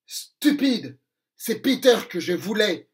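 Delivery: cri furieux, plus fort; colère de Crochet. Acted. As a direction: hurler de rage contre Mouche. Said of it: "hurle Crochet très en colère". (Crochet hurle sa colère contre Mouche)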